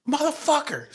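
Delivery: high-pitched mimicked outburst; losing his mind. Father swatting himself while wrenching, losing his mind. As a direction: imitate a sudden enraged curse. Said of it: "he's losing his fucking mind".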